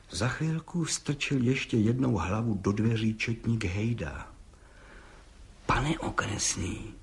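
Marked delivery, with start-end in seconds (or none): 5.7-6.9 vengefully. A narrator's reading. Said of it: "řekl mstivě".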